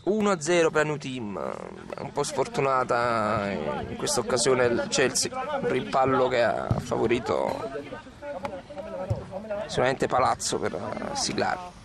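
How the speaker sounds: rising to a shouted goal call; breathless italian goal commentary. Acted. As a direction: build it up and scream gol.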